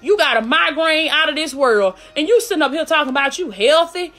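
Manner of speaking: lightly acted devil's taunt, keyed up; a touch of scornful disbelief; mocking inner voice. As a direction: scoff lightly, piling up the doubts. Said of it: "hear that voice in your head say".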